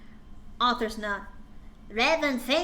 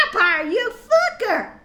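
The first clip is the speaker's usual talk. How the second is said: high, loud, laughing insult; hammed-up slap-fight yell; mock angry yell; 8 semitones higher, 7 dB louder than usual. Girl yelling at vampire while slapping him. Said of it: "I said, slapping him".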